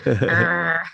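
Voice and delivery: low, loud growled "arr". Retold or imitated. Player mimics Max at the table, mock growl. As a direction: imitate him with a low growl. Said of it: "he's all over here like".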